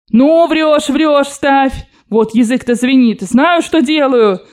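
high, heated insistence, slowing on the last line; an old woman shaking with conviction; trembling with fervour. Acted. Grandmother overrules the narrator's warning, trembling with fervour. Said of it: "Даже затряслась в выступлении бабушка".

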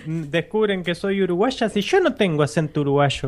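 mock Uruguayan. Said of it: "con ese acento tan".

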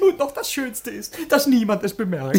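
savouring the trick with glee; gloating laughter. Acted. Servant to master, laughing at their cunning.

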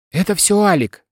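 high, plaintive, understated crying; tearful. A narrator's reading. Wife blaming Alik before husband and investigator, tearful. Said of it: "плача сказала Бурсова".

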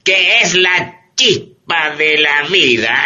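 ad-slogan voice. Acted. Quoting the radio ad.

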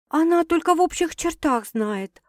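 high-pitched defensive excuse; making excuses. A narrator's reading. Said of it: "оправдывалась Саша". (оправдываясь)

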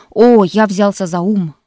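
loud, slow, eager promise; earnest loud assurance; fervent assurance. Acted. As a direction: insist warmly that you've changed. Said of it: "горячо заверил её Коннор".

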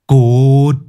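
loud, curt dismissal; explosive one-word rebuff; snapping. Acted. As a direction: snap it out angrily. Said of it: "Kiên gắt".

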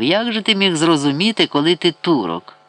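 understated tipsy taunt; mild drunken mockery. A narrator's reading. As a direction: jeer like a tipsy man, lightly. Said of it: "Ібрагім п'яно зареготав".

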